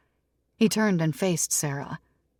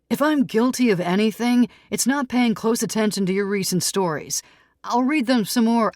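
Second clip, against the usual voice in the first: a touch higher and louder, pleading his case; lightly voiced Tom, defensive; 6 semitones higher, 6 dB louder than usual. Tom protests to the editor, defensive and raised. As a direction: defend yourself, half-protesting.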